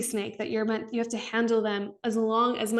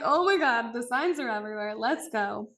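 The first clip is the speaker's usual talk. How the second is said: excited. Retold or imitated. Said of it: "And I'm like".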